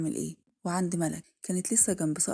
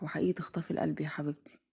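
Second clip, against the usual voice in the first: whispering to his sleeping love; 3 semitones lower than usual. Acted. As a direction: breathe the words so she won't wake. Kamal gazes at sleeping Rooh.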